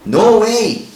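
shouted high and loud; loud mock outcry of protest. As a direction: yell it in disbelief. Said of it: "준호가 또 외쳐요".

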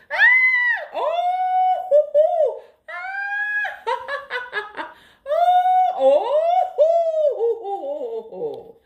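loud high whooping laugh into a pretend phone; cell phone laughter. Shown as a demonstration. Teacher demonstrating laughter yoga, whooping phone laugh. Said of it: "that's our cell phone laughter".

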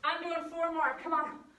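loud pumped-up rep counting; aerobics instructor. Real, not acted. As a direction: count the reps like an energetic coach. Counting push-ups, pushing class on.

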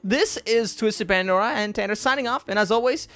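upbeat channel sign-off; YouTube outro. Acted. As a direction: wrap up the video for viewers.

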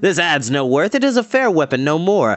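lightly voiced villain striking a bargain; a hint of a swaggering, dismissive brigand; scornful Dorath.

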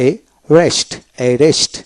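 এ রেস্ট split after the first vowel, one r; single-r pronunciation. Shown as a demonstration. Teacher showing learners the double-r word: এ রেস্ট with one r. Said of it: "একটা আর উচ্চারণ হবে".

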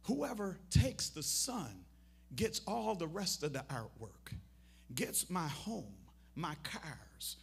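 loud, deliberate climactic announcement; emphatic proclamation. Retold or imitated. Reading out the will's climax.

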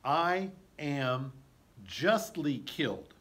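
P=A; called out dying. Shown as a demonstration. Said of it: "he calls out".

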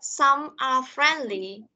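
the passage read out slowly for the class; teacher reading the text to pupils; slow reading aloud. Shown as a demonstration. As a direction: read it slowly, word by word, for learners. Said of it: "Cô sẽ đọc lại nha".

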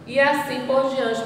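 ordinary delivery

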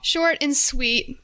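slow down into "sweet", leaning on it; emphasis on "sweet". Real, not acted. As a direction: stretch out "sweet" slowly. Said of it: "Emphasis on the sweet".

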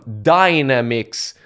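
"dynamics" stressed on the first syllable; wrong stress on dynamics. Shown as a demonstration. Creator showing how he used to mispronounce it, wrong first-syllable stress on "dynamics". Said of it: "le bon accent tonique sur certains mots".

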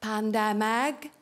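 Pandemig said slowly in Welsh; slow teacherly Pandemig; Welsh word. Shown as a demonstration. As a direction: Pandemig drawn out as a mock Welsh lesson. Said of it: "Should I teach you some words".

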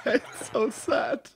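croaking self-pity, half joking; lost voice. Real, not acted. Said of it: "I have no voice".

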